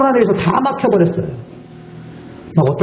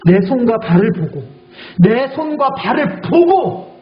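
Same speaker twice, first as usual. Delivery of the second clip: voice of Jesus; 5 semitones higher, much slower than usual. Acted. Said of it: "예수님 오셔서 뭐라고 했어요".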